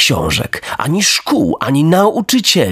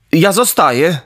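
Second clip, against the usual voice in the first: put-on higher, firm boyish voice; raised, resolute puppet voice; earnest puppet Pinokio; 5 semitones higher than usual. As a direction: stand your ground like a good boy.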